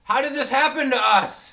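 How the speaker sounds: high, loud puppet voice; wailing puppet despair; Muppet voice. Acted. Turned into Muppets.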